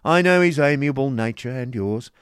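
rough and bitter. A narrator's reading. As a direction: grate the words out loudly with bitter scorn. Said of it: "in the rough and bitter voice".

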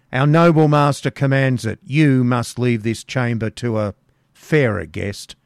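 loud, rough order; loud command. Acted. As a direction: bark the order at her. Man ordering hag out.

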